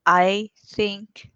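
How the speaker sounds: very slow, drawn-out tentative reply, rising at the end; hesitant answer. Real, not acted. Host guessing about the undead dragon, slow and hesitant. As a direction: stretch out "yes" into a questioning rise.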